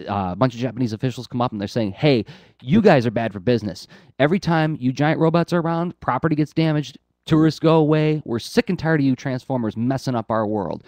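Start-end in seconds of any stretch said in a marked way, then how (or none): 1.9-10.8 raised, higher-pitched mock complaint; retold yelling. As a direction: scold them like fed-up officials, lightly acted. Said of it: "they're just yelling, yelling at him".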